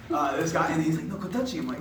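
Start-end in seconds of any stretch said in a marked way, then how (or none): 1.1-1.6 imitated tour guide in broken English, higher pitched; non-English-speaking tour guide. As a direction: lightly mimic a foreign guide's halting English. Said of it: "he didn't speak any English".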